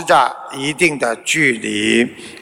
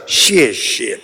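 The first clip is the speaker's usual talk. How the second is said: understated, lower-pitched thanks; a touch of gratitude in a low narrator's voice; grateful; 6 semitones lower than usual. A narrator's reading. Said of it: "感激地说了一声". (略带感激，低声道谢)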